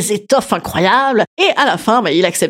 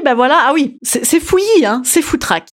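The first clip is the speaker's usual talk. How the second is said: high princess voice; 5 semitones higher than usual. Retold or imitated.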